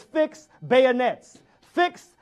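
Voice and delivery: slow, loud battle command; slow drawn-out officer's order to fix bayonets. Retold or imitated. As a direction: call the charge to the troops. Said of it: "He says".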